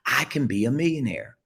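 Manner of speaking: lifted, believing take of "I can be a millionaire"; a hopeful lift on "I can be a millionaire"; changed delivery. Shown as a demonstration. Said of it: "You see how I just changed it?".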